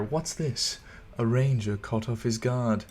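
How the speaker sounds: put-on lightly teasing accented movie quote; playful, a touch sultry and sarcastic; playful Arwen. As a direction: lift the question, then tease with mock surprise. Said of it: "it's, like, kinda playful".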